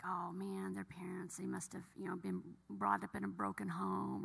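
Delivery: imitating her old judgmental self in a whisper. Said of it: "I'm like".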